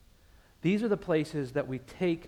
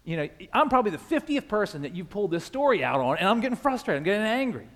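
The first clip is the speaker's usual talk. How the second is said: inner frustration; 5 semitones higher, 3 dB louder, faster than usual. Retold or imitated. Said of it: "part of me was saying".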